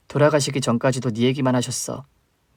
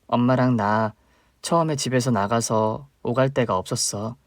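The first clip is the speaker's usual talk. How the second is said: ordinary delivery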